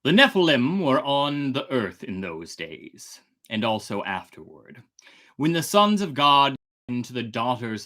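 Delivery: put-on measured, solemn reading of an old text; scripture reading. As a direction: read it like a sacred passage. Reads scripture passage aloud.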